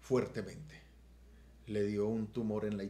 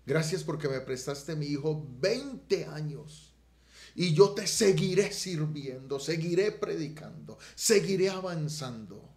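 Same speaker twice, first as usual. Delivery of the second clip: high, loud, slow tearful pledge; tearful vow; 5 semitones higher, 6 dB louder, slower than usual. Retold or imitated. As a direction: plead with God through tears, slowly. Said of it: "yo le decía". (voto lloroso, alto y lento)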